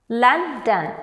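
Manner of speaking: "London" as Lon, don; two separate beats. Shown as a demonstration. Teacher letting learners hear two beats, "London" syllable by syllable. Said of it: "You hear two beats there".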